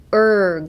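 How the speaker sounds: "うー" as the er of worst; drawn-out English er on "うー"; pinched-cheek vowel. Shown as a demonstration. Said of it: "この声の".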